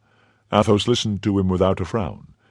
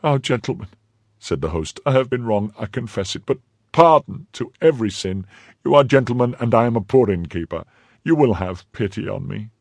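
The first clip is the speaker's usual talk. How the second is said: pleading innkeeper; 5 semitones higher than usual. Acted.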